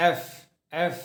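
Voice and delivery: এফ, said as a strong stream of air through teeth and lip; breathy F. Shown as a demonstration. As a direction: blow the এফ hard. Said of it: "বাতাস বের হতে জোরে". (জোরে বাতাস ছেড়ে এফ)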